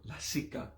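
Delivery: soft "LA-si-ka", ending on a brief A; varied vowel intonation. Shown as a demonstration. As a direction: say lasika lightly, all vowels sounded. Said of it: "depending on the intonations of the vowels".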